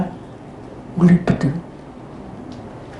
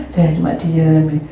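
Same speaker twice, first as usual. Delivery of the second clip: ordinary talk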